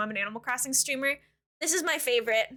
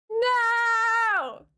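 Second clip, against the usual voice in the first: mock outraged no; 7 semitones higher, 4 dB louder than usual. Real, not acted. Refusing to share the fossil.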